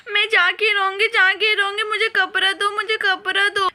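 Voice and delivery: whiny tearful insisting; crying tantrum. Acted. Girl cries to get her way with uncle, whining tearfully. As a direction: demand it through sobs.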